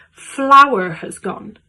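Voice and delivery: loud, drawn-out disbelief; hammed-up dismay at the shortage; mock exasperation. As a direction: stretch it out loudly in disbelief. Acts exasperation at panic buying.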